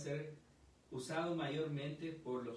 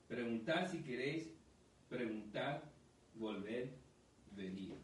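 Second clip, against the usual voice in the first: scripture reading. Acted. Pastor reads scripture aloud.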